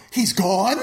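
stunned disbelief. Retold or imitated. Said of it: "You wanna see acting? Watch Travolta go".

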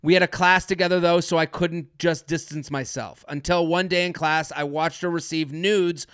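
brisk, even read-aloud, slightly low and soft; email read aloud. Acted. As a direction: read a listener's confession straight through. Reads a listener's email aloud.

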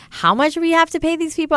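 high-pitched incredulous question; retold disbelief. Founder reacting to CEO candidates' huge salaries, incredulous. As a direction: act out sticker shock, pitch soaring.

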